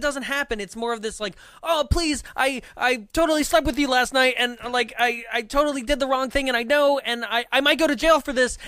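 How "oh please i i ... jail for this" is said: high, loud hammed-up confession; mock desperate pleading. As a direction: babble a pitched-up, over-the-top plea. Parody of lover's desperate plea.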